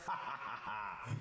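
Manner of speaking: acted Gruffalo laugh; bursting with laughter. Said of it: "bursting with laughter".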